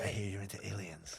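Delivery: chat line voice. Retold or imitated. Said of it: "That's the chat line voice right there".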